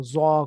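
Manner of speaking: "زو" said thick and heavy; heavy consonant. Shown as a demonstration. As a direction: thicken the sound of "زو" into a rounded, heavy one. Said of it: "موٹا کر کے پڑھنا ہے".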